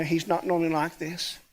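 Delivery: dry ironic echo. Retold or imitated. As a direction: echo his words with a knowing irony. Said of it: "Uh, yeah, I know".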